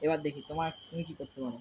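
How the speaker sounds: low, hushed hiding voice; whispering while hiding. Real, not acted. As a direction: speak low so you aren't found. Hiding while friend plays.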